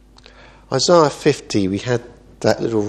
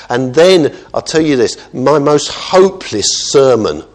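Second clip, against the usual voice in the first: raised, insistent preacher's delivery; emphatic preaching; 3 semitones higher, 5 dB louder than usual. Real, not acted. Preacher urging the congregation to pray for conviction, emphatic. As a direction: preach it, driving the key words home.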